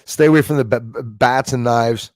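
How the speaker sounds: normal talking voice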